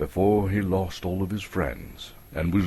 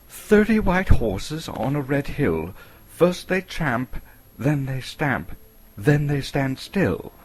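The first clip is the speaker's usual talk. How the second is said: urgent; 7 semitones higher, 4 dB louder than usual. A narrator's reading. Bilbo poses his riddle.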